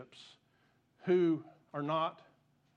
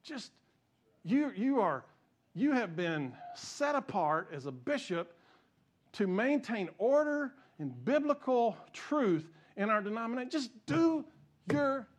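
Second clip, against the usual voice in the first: fired up; 3 semitones higher than usual. Real, not acted. Preacher telling bishops to do their job, fired up. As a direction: plead with them, leaning on each word. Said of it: "I get fired up".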